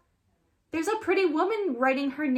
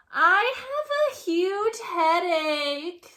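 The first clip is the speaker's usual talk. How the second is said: high, slow tearful complaint; half-cry the complaint; whimpering; 7 semitones higher, 4 dB louder, slower than usual. A narrator's reading. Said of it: "says Penny".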